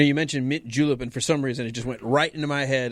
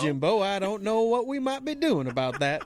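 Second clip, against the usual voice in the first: Southern drawl; 5 semitones higher than usual. Retold or imitated. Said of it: "he did the Andy Griffith one".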